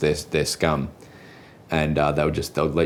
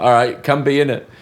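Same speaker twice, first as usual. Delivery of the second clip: higher-pitched, game acceptance; retold quick yes; 8 semitones higher, 4 dB louder than usual. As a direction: wave them in with a lifted voice. Retold eager yes to a friend.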